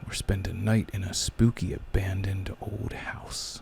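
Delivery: eerie unvoiced whisper; spooky voice. Shown as a demonstration. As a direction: breathe it like a ghost story. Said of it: "And I'm gonna do spooky voice".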